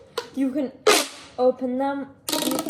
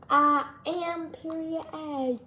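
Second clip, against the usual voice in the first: slow sassy declaration; 4 semitones higher, slower than usual. Pretend. Playful chant about period A.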